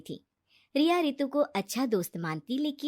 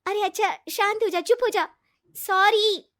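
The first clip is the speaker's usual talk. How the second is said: soothing; 10 semitones higher, 7 dB louder than usual. A narrator's reading. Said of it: "वो उसे शांत करती है".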